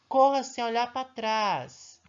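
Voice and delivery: put-on teacher reading an exclamation to children, urgent; exclaiming. Shown as a demonstration. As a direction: call it out urgently. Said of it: "Ponto de exclamação".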